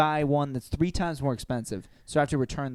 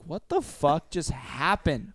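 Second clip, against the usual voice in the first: baffled; 3 semitones higher, slower than usual. Retold or imitated. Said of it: "And I was like".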